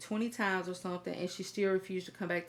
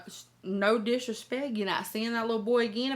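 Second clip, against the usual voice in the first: ordinary delivery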